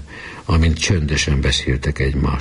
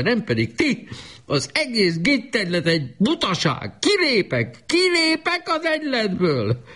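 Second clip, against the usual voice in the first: delirious raving. A narrator's reading. Sick boy defies the club in delirium, high-pitched raving. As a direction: rave in a high child's voice.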